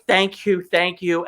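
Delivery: mildly acted emotional thank-you; retold tearful thanks. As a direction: imitate losing it while saying thanks. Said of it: "And I lost it".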